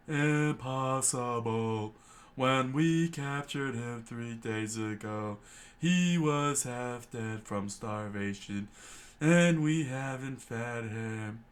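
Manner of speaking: slow, pompous officer voice; disbelieving officer. Acted. Lieutenant refusing to believe the escape, slow and pompous. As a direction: draw out the disbelief.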